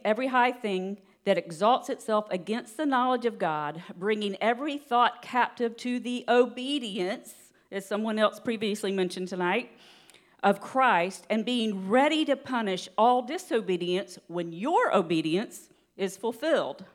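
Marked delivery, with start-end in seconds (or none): 0.0-7.3 deliberate, emphatic verse reading; slow scripture reading. Real, not acted. Preacher reading the verse to church, slow and deliberate. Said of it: "read this kinda slow". 10.4-16.8 deliberate, emphatic verse reading; slow scripture reading. Real, not acted. Preacher finishing the verse for church, slow and deliberate. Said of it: "need to read that slowly".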